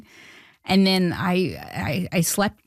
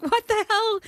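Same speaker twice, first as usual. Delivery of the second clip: stunned disbelief; 13 semitones higher than usual. Retold or imitated. Hearing Sandler will call her.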